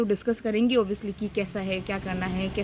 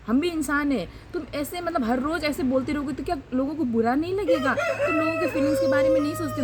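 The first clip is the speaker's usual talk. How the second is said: higher-pitched heated scolding; confronting the coworker who called her Chinese, pitch raised; retold angry rebuke; 3 semitones higher than usual. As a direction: tell him off, voice climbing. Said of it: "मेरा जो tone है वो भी high चला गया".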